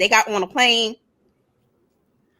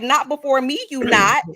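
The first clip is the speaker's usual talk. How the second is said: sassy retort; 3 semitones higher than usual. Retold or imitated. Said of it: "I was like".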